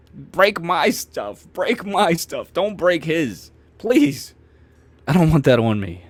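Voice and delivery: high, slow begging; desperate plea. Retold or imitated. Begging mom to spare friend's gear.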